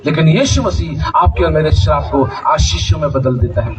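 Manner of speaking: ordinary talk, nothing marked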